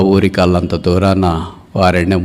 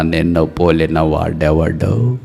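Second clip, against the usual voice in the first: low, slow, drawn-out question; God's awed declaration; 3 semitones lower, slower than usual. Acted. Preacher quotes God's words to Israel, low slow wonder. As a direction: stretch it out slowly and low, in wonder. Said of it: "దేవుడు మాట్లాడుతున్న మాటలు ఏంటంటే".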